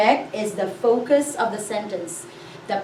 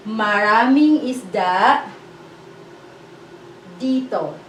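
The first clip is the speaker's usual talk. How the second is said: slow model. Shown as a demonstration. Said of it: "will become".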